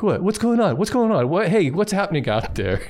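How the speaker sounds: high, repetitive, puzzled cat voice; nosy onlooking cat. Retold or imitated. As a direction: pester with questions as the curious cat indoors. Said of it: "and the other cat".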